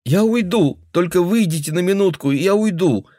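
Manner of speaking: high urgent plea; cornered girl begging him to step out; frightened pleading. Acted. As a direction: bargain desperately to be left alone. Girl bargaining in fear.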